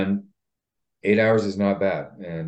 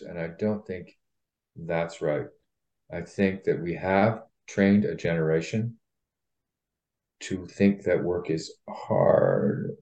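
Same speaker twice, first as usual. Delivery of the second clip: vocal fry; 3 dB quieter, slower than usual. Real, not acted. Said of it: "I love doing a vocal free fry".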